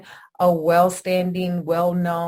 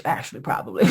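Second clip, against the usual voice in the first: mocking repeat; 6 semitones lower, faster than usual. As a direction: repeat his bad English to mock it. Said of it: "that's not even good English".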